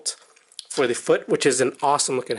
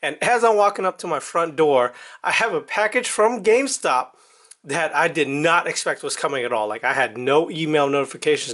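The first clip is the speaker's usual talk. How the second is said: speaking with a numb mouth after the dentist; words slurred by numbness. Real, not acted. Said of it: "apologize for the way I might be sounding right now".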